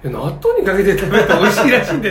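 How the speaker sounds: laughing. Retold or imitated. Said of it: "って言った".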